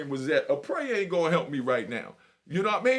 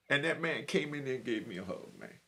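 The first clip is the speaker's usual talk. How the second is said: holding back tears while telling it; voice breaking; 4 semitones lower, 4 dB quieter than usual. Real, not acted. Ex-inmate to young listeners, voice breaking. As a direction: voice cracking with real emotion. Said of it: "I know you just heard my voice break".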